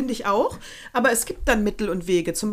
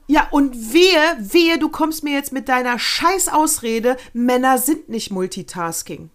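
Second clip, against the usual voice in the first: mock angry; 2 semitones higher, 5 dB louder, slower than usual. Angry rant at husbands.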